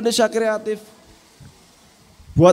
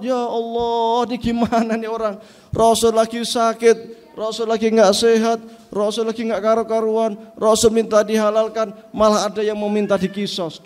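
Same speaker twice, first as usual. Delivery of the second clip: dismayed companions. Acted. Companions protesting among themselves, distressed. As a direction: voice the crowd's shocked dismay.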